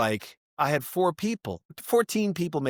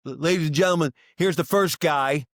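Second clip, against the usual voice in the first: DJ introduction; 3 semitones higher, 3 dB louder than usual. Retold or imitated. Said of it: "he goes".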